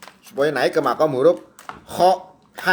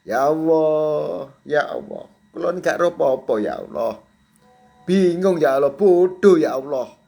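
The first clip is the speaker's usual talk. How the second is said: mock crying prayer.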